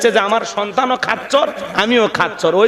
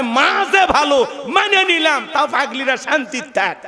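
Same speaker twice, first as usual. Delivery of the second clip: boastful mother; 6 semitones higher than usual. Retold or imitated.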